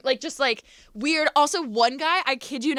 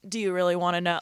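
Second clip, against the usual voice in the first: low creepy man voice; 6 semitones lower, faster than usual. Retold or imitated. Imitating older creepy men.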